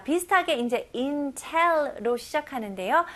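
ordinary delivery

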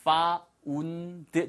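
found run into the next word; linked pronunciation. Shown as a demonstration. Teacher showing how found sounds when linked, linked pronunciation. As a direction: say "found" drawn out, linking its end onward. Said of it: "참 들려요".

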